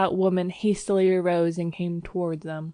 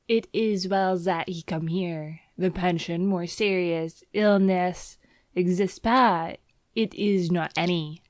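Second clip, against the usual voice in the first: put-on lightly French-accented, firm assurance; convinced landlady. Landlady assuring the doctor, firm French-accented English. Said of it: "she announced with conviction".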